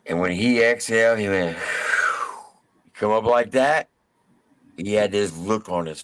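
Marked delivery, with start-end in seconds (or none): 1.6-2.4 long heavy exhale. Retold or imitated. Inmate exhales before attacking.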